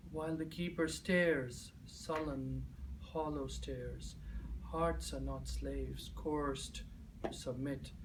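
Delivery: measured verse sinking into near-whisper; hushed, deliberate spoken-word close; poem recitation. Acted. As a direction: recite in short, weighed phrases, softening to the end.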